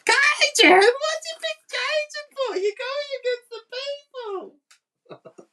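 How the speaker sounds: high, loud shrieking yell; squealing mock outrage at the choice; mock scream. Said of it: "she was just screaming".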